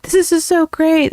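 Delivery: high, gushing fan voice; retold delight. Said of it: "I was like".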